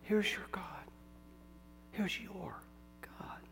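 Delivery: "Here's your God" said softly, offering God to the listener; correct gentle reading. Shown as a demonstration. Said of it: "It says".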